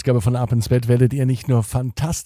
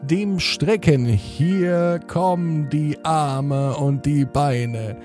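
sleep story narrator. Acted. Bedtime podcast host intro.

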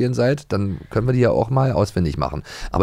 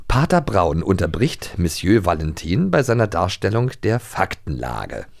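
slow, deliberate quiz host delivery; lightly staged quiz master voice; quiz host reading; slower than usual. Acted. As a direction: read the options out like a game show. Reads quiz question like host.

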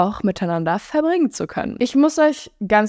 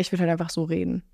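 softer, slightly lowered everyday voice; understated, low-key and quieter; a bit deeper; 3 semitones lower, 6 dB quieter than usual. Shown as a demonstration. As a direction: relax into your off-mic family voice. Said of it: "ich rede einfach ein bisschen tiefer in echt".

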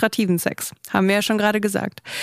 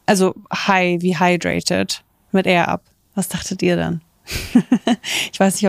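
ad read. Acted. Sponsored ad read.

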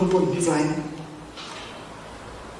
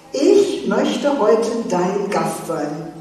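slow invitation; much slower than usual. Acted. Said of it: "rief Jesus".

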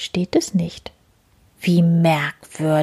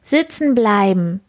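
command; 3 dB louder than usual. Acted. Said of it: "befiehlt sie".

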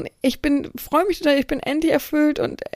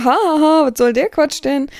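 a louder fake ha-ha, then a scornful question; mocking laugh; 2 semitones higher, 6 dB louder than usual. Domina mimicking a sneering laugh at the slave, mock-scornful. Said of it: "So nach dem Motto".

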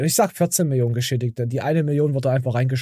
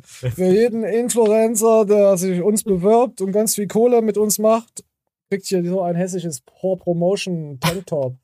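high, slow salesman pitch; mock ad pitch; 3 semitones higher, slower than usual. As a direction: sell it like a cheesy ad.

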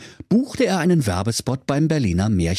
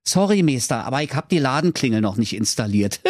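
Höke's voice; 2 semitones higher, faster than usual. Acted. Höke antwortet dem Kaiser.

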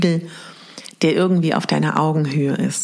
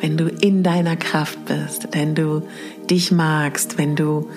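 sleep story narrator. Acted. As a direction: breathe it out gently, long pauses. Leads mirror meditation exercise.

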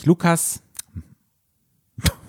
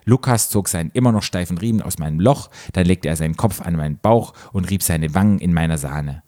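measured read-aloud narration; story narration. A narrator's reading. Host reading a story to co-host, measured narration.

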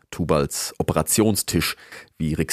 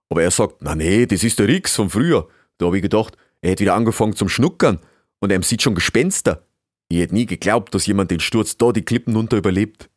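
lightly voiced beaver in southern German dialect; chatty old beaver; 5 dB louder, faster than usual. Beaver greets guest he thought dead, animated dialect. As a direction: tell it animatedly in broad dialect.

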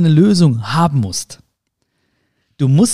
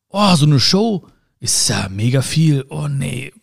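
slow mock-daunted groan, fading off; overwhelmed groaning; slower than usual. People balking at a huge task, overwhelmed. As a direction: act out someone daunted by a big job. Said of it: "Viele Menschen hätten zum Beispiel gesagt".

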